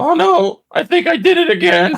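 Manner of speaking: very high, sing-song, swooping cartoon kid voice. Speaker says he needs that voice, then does a Simpsons kid voice. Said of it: "that voice like the one kid from The Simpsons".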